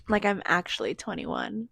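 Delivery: laughing in disbelief. Real, not acted. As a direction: giggle through the words. Laughing at turning 21.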